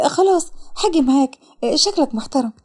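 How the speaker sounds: mildly fearful agreement. Acted. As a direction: give in hesitantly. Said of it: "وسارة بخوف". (موافقة بخوف بسيط)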